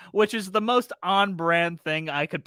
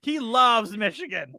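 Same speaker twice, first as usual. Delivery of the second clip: put-on voice; 6 semitones higher, slower than usual. Mimicking Raimi-fan voice, playful.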